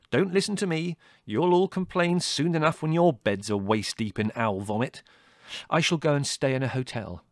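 loud, huffy warning; snappish. A narrator's reading. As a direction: storm off in words, aggrieved. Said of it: "snapped Larry".

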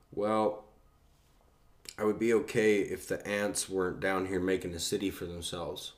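deadpan, matter-of-fact retelling; straight-faced stoner logic; dead serious. Retold or imitated. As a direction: say it completely in earnest, after a hesitant pause. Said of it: "I was dead serious".

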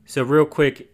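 a little breathless after lunch; out of breath. Real, not acted. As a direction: talk slightly winded, short of breath. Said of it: "if I sound like I'm out of breath".

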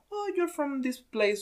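high, slow mock pride; mock boast about where they're from; mock proud. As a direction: lightly mimic a proud patriot. Mocking proud nationalists.

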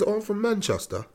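put-on funny Manchester accent. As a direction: imitate a soft, high Manchester accent. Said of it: "he sound funny".

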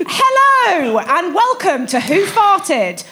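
bright game show host patter. Acted. Host opening the sketch to the audience, cheesy game show voice.

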